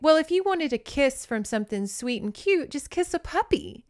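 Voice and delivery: high, light puppy-adoring voice; playful acted sweetness; cooing character quote. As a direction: coo as if over a tiny puppy. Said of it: "where she's like".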